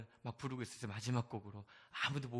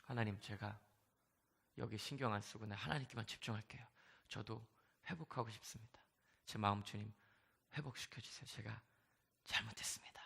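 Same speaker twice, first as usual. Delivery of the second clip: softer, near-whispered plea to God; whispered prayer of surrender, fading to breath; hushed prayer; 2 semitones lower, 6 dB quieter than usual. Retold or imitated. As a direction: pray quietly, humbly. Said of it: "두려운 거죠".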